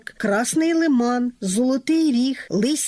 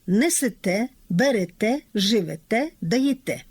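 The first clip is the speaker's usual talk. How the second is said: every word lands on a stressed те; stress on last syllable. Shown as a demonstration. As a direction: stress the final те in "Несете, берете, живете, даєте". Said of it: "літературний наголос на останньому складі".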